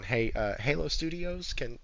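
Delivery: soft, meek begging; lightly voiced nervous ex-employee; sheepish phone plea. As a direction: quietly ask for the job back. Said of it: "on the phone going".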